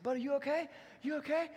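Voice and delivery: put-on high, urgent checking on the kid; an old neighbour calling out in concern; high, rising anxious you okay; concerned old man.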